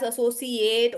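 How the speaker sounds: "associate" ending in a full "ATE"; "associate" as "a-so-see-AYT"; verb pronunciation. Shown as a demonstration. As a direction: say "associate" with a long AY at the end. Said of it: "everyone was pronouncing this word as".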